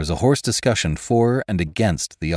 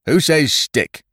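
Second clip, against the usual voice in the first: loud, high challenge to the crew; hot cry; 9 semitones higher, 5 dB louder, slower than usual. A narrator's reading. One of the men calls for a vote, crying out hotly. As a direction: throw the question out hotly. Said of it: "leaped up hotly".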